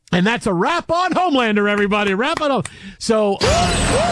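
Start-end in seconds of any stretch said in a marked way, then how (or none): 3.0-4.1 high, slow put-on announcer voice; mock spoiler alert. Host mocking his own spoiler, slow high announcer voice. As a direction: sing out the warning like a silly alarm.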